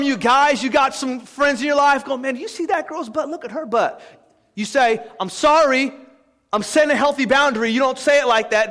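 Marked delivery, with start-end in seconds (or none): 2.2-4.0 hushed aside from a leering buddy; ogling friend. Acted. Friends in your life going look at her, hushed ogling. Voicing a crude friend's remark. 5.2-7.7 slightly corny, over-earnest refusal. Shown as a demonstration. Telling friends off about girl talk, corny and earnest. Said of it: "That sounds kinda corny".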